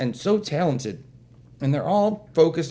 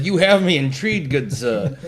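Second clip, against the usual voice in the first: mock-formal interest; 5 dB louder than usual. Mock-formal retold reply to father.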